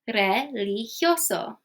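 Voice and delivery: religioso drawn out slowly, syllable by syllable; slow Spanish pronunciation. Shown as a demonstration. Teacher slowly models the tricky Spanish word in Spanish pronunciation. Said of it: "now let's try these ones".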